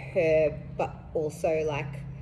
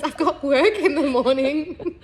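slow, high, louder through laughter; laughing; 8 semitones higher, 8 dB louder, slower than usual. Retold or imitated. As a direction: stretch it out while cracking up. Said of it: "Because I was like".

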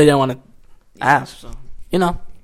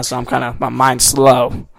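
jet lagged; 2 semitones lower than usual. Real, not acted. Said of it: "Sorry, I'm jet lagged right now".

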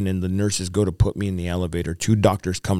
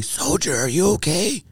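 retold shout of concern, pitched up; imitated yell; 9 semitones higher than usual. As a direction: call out as if to someone at a distance. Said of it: "they yell to me".

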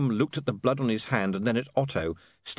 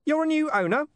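giggly sneering imp; 4 dB louder than usual. Acted. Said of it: "said the imp".

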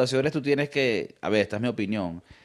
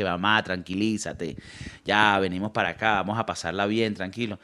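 calming son; 5 semitones lower, 3 dB quieter than usual. Retold or imitated. Son calming his angry mother at dinner, soothing. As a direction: settle her down gently.

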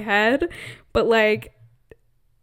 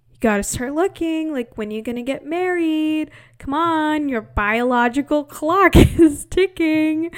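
nagging relatives; 4 semitones higher than usual. Retold or imitated. Relatives nagging her sister.

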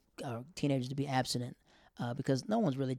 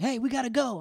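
higher, louder dad's call; imitated dad calling; 10 semitones higher, 6 dB louder than usual. Dad breaking up the date, calling out.

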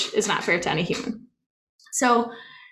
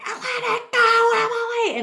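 higher, louder, slow laughing scream; mock scream at the dog through laughter; 4 dB louder than usual. Screaming at the dog to let the woodchuck go, laughing scream. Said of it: "and screaming".

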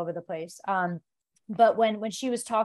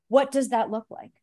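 laughing; 3 semitones higher than usual. Retold or imitated. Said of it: "And I'm like".

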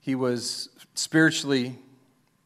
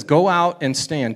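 commanding; 4 semitones higher, 8 dB louder than usual. Acted. God commanding Elijah.

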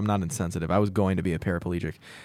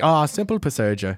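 a higher, light mock Asian accent for a doctor; doctor shrugging it off, in a fake Asian accent; 5 semitones higher than usual. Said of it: "I can't do an Asian accent".

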